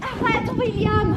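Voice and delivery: high, loud, slow rebuke; sharp scold. Acted. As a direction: stop him cold with his name. Scolding lover in scene.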